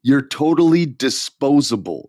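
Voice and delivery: emphatic mock wrestling promo; Kevin Owens promo put-down. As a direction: retell it as a punchy heel insult. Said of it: "he called him an appendix".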